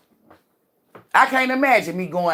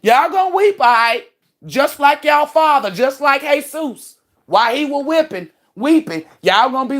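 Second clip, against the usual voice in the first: taunting; 6 semitones higher than usual. Real, not acted. Telling the witches they will weep, high and taunting. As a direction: rub it in their faces.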